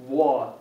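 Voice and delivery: "wa" with the mouth rounded into a circle; a rounded, emphatic wa; Arabic emphatic sound, modelled; Arabic emphatic letter. Shown as a demonstration. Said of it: "So it's gonna be".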